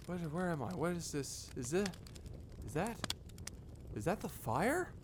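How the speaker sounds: dazed murmur. Acted. Waking disoriented.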